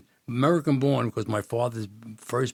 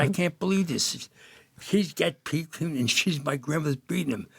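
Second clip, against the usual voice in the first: amazed disbelief; 5 semitones higher than usual. Retold or imitated. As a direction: say it like you can't believe it. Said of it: "I said".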